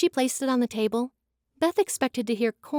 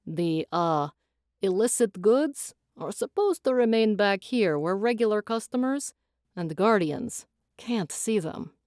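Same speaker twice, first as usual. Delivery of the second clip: lightly voiced Thorin.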